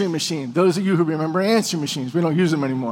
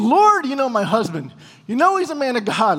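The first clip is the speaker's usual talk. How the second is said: mildly raised, imitated fervent prayer; crying out to God; 3 semitones higher than usual. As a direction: pray out earnestly, a little higher. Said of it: "screaming out to God, saying".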